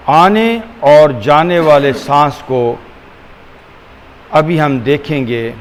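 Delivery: unhurried, measured, leaving room for each breath; guided meditation. Acted. Teacher guiding listeners to watch the breath, calm meditation voice.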